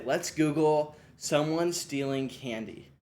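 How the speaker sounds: slow, clear instruction to a student; teacher prompt. Shown as a demonstration. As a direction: spell out the task slowly for the class. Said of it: "I would say".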